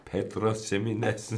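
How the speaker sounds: "Pedro Jimenez" with a light Spanish accent. Shown as a demonstration. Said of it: "in the Spanish accent".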